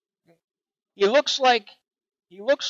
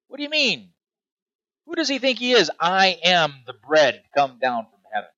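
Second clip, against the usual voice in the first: scoffing crowd. Retold or imitated. Preacher voicing the skeptical crowd scoffing at Jesus, incredulous. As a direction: ham up the indignant doubters.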